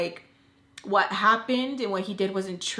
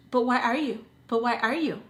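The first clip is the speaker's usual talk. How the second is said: condescending; 4 semitones higher than usual. Retold or imitated. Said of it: "her condescending tone".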